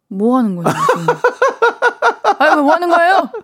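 high, laughing scolding imitation; scolding passerby. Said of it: "엄청 무섭게".

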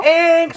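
high whining mosquito buzz. Shown as a demonstration. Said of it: "모기 소리랑 잘 어울릴 것 같은데요".

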